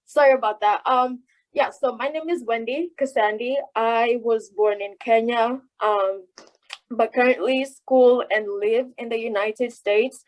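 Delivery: speaking muffled behind a mask; words dampened by a face mask; through a face mask. Real, not acted. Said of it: "pardon my mask".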